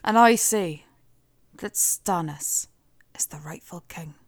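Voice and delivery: imitation légère d'un accent écossais, finissant en chuchotement; a Scottish-ish Davos, trailing to a whisper; Davos impression. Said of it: "do a Davos impression".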